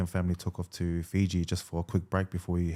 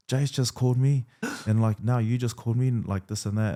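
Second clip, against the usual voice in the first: mock-indignant, pitched up; angry retelling; 4 semitones higher than usual. Player retelling the coach's angry reply, mildly indignant. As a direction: imitate an annoyed coach's complaint. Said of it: "He was angry".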